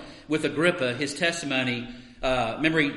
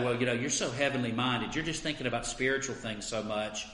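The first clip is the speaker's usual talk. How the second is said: lightly voiced skeptic brushing off Christians; scoffing critic. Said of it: "They could say".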